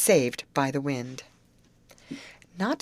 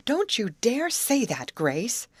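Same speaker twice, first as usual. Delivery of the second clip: nervous protest; 7 semitones higher, slower than usual. A narrator's reading. Amy frightened, scolding Grace.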